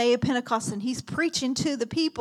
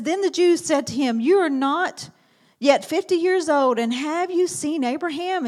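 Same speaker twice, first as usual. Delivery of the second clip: challenge; 5 semitones higher, 6 dB louder than usual. Acted. Preacher voices the Jews' challenge.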